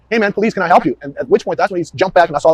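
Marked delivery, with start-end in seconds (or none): 0.1-1.0 louder, higher police hail; retold call-out. Officer shows investigators how he hailed the driver, raised voice. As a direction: announce yourself firmly to a stranger. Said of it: "And I immediately said".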